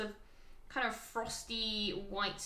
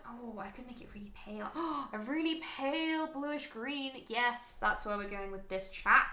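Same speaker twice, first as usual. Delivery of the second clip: quick hushed oh, then a gasp and lift; excited. Real, not acted. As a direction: get carried away by a sudden idea. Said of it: "Sorry, I got excited a bit there".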